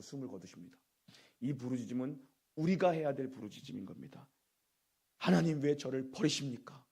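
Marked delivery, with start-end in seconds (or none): 5.2-6.8 raised, higher plea to God; acted crying out. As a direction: cry out in mild mock desperation, louder. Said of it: "우리가 외쳐야 되는 부르짖음을". (부르짖듯 높여 외치는 호소)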